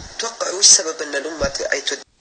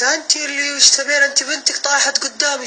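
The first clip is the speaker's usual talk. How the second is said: slow, loud and much higher retort; raised voice; 10 semitones higher, 3 dB louder than usual. Retold or imitated. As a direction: yell back at the mother, slow and firm. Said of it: "رفعت صوتي والله". (يرد على الأم رافعاً صوته ببطء)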